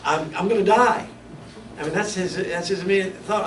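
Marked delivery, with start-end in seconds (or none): 0.0-1.1 louder, laughing through the quote. Real, not acted. Preacher retelling Isaiah's fear, still laughing. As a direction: play Isaiah's panic while still chuckling.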